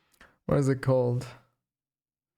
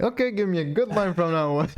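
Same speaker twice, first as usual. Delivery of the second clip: mock demand; 4 semitones higher than usual. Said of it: "I'm gonna be like".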